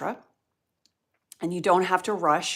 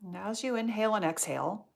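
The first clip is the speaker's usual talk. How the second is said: guided meditation. Real, not acted. Yoga teacher guiding students through nostril breathing, meditative. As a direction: guide the breath gently, leaving space between phrases.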